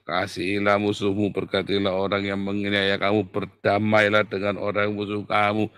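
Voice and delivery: dutiful recitation. Acted. Reciting Matthew's rules, against the Psalm's shout.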